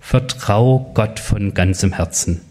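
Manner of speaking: slow, measured scripture reading; unhurried pastor reading from scripture; Bible reading. A narrator's reading. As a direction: read the verse out slowly, word by word. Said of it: "holte seine Bibel hervor und las".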